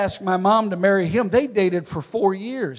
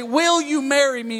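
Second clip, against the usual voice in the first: higher-pitched, flowing proposal; acted proposal; 4 semitones higher than usual. Hypothetical suitor on one knee, asking in a raised voice. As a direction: pose it smoothly, pitched up. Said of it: "you drop down on one knee and you say".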